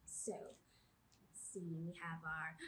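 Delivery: slow soft whisper. Acted. Librarian whispers to the children, slowly. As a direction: hush them in close.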